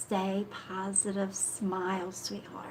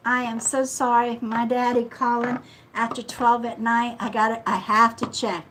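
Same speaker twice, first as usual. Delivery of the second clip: flustered apology; 2 semitones higher, 8 dB louder than usual. Real, not acted. Apologising to viewers after call.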